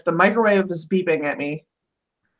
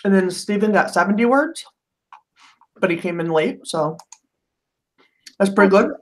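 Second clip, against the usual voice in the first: talking around chocolate; chewing chocolate while speaking; mouth full. Real, not acted. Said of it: "Sorry, I had chocolate in my mouth".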